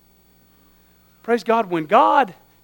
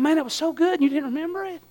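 mock wounded preacher to a forgetful listener, hushed; hushed mock disappointment; 3 semitones lower, 9 dB quieter than usual. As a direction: tease them gently under your breath. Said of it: "I'm sitting there going".

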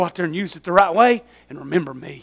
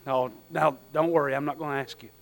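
mock wounded preacher to a forgetful listener, hushed; hushed mock disappointment; 3 semitones lower, 9 dB quieter than usual. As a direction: tease them gently under your breath. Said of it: "I'm sitting there going".

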